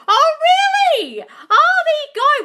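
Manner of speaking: high, loud, laughing delight; delighted squeal. Real, not acted. Greeting a viewer from Sammy's group with a high, laughing squeal. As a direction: gush as if thrilled to hear it.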